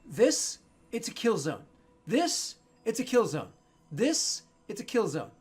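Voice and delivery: loud, high alarmed warning; alarmed shout. Acted. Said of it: "She's like".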